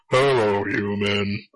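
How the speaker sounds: lightly voiced monotone creature, slowing down; monotone alien. Player imitating the Elcor for friends, lightly done slow monotone. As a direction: drone it out slowly with little feeling. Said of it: "the monotone guys is like".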